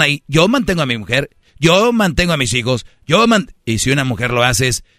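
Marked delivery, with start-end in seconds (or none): 0.3-3.5 boastful bragging. Retold or imitated. Mocking men bragging.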